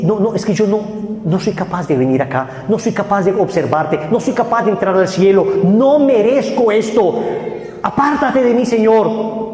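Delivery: high, anguished plea to God, slowing on the end; a sinner who begs God to turn away; pleading sinner. Acted. Sinner pleading with the Lord, anguished and high.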